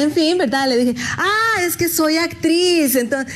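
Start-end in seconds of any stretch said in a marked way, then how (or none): 1.2-3.0 higher, slow and proud. Retold or imitated. The patient proudly tells the doctor, slow and higher. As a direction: announce it with naive pride.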